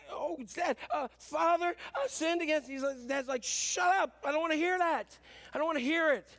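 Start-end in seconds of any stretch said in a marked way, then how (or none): 0.1-2.7 high-pitched interrupted confession; flustered son. Acted. Son tackled mid-confession by father. 3.4-6.3 high, insistent cutting-off; dismissive father. Acted. Father cuts off son's confession.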